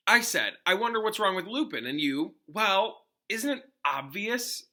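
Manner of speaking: annoyed boy mimicking a know-it-all; mocking Ron. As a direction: quote her back sneeringly. Ron quoting Hermione mockingly.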